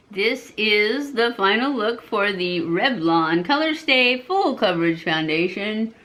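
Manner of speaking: ordinary delivery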